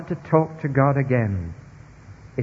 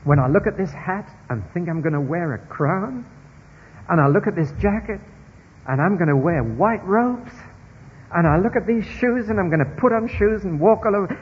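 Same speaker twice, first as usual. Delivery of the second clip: put-on joyful old farmer; 5 semitones higher than usual. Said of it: "And he said".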